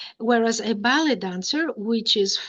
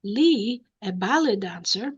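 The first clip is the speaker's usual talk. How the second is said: surprised. Shown as a demonstration. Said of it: "You may be very surprised by this and say".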